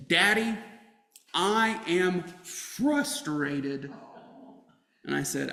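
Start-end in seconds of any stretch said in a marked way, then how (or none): 0.1-3.9 put-on slow, drawn-out child's complaint; frustrated daughter quoted, slow and drawn out; imitating a frustrated child. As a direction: play the tired kid in the back seat. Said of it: "she told me from the back seat".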